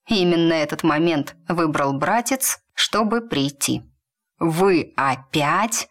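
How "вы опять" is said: slow, drawn-out indignant question; a touch of outrage, dragged out slowly; Duke, indignant. Acted. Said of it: "столько возмущения было в голосе Дюка".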